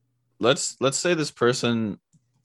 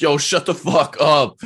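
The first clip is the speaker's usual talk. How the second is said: loud, slow mock yell with a higher pitch; yelling at a kid; 7 semitones higher, 8 dB louder than usual. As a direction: bark it across the game lobby. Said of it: "people would be like".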